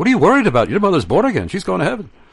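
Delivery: put-on brisk, quick, lilting, reassuring Welsh accent. Remembering a man reassuring him about his dying mother: Peter Jeffrey's Welsh accent. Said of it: "in his Welsh accent saying".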